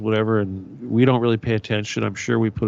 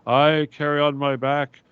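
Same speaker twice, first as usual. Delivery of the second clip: higher, slow, grand voice of a self-styled noble; mocking royal wannabe; 4 semitones higher, slower than usual. Mocking online royalty wannabes, slow and higher-pitched grandness. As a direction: puff it up like a fake aristocrat, slowly. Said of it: "I see these guys".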